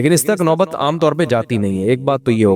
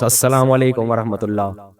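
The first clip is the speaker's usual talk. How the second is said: slow formal greeting; 3 semitones lower than usual. Shown as a demonstration. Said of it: "آج بچوں کو بول کے دکھاؤ آپ یہ".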